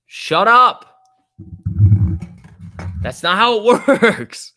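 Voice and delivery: high, loud laughing protest; laughing disbelief. Real, not acted.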